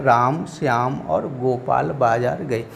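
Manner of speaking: slow, measured list with a break after Ram; drawn-out names, each one separated; comma pause reading. Shown as a demonstration. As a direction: set Ram apart, then Shyam और गोपाल बाजार गए slowly. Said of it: "ऐसे पढ़ा जाए".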